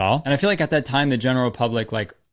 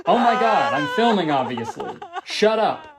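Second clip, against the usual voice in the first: snapping at her; 7 semitones higher than usual. Pretend. Vlogger snapping at crying wife.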